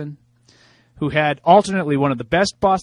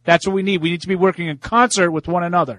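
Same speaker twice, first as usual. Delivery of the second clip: put-on raised, preachy Boston accent; 4 semitones higher, 4 dB louder than usual. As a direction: lecture the country in a Boston accent. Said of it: "are you affecting an accent there".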